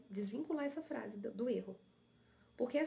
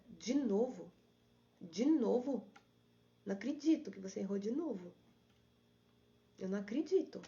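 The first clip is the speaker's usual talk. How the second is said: exasperated, scolding disbelief, louder; dissatisfied inner critic; 4 dB louder than usual. Retold or imitated. Coach voicing her inner critic to the audience, louder exasperated scolding. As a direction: scold yourself like a fed-up critic. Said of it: "nesse tom de insatisfação, que eu tô fazendo pra vocês".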